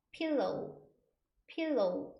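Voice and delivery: "pillow" said alone, pil-lo; model pronunciation. Shown as a demonstration. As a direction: model pillow carefully for learners. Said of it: "이렇게 발음합니다".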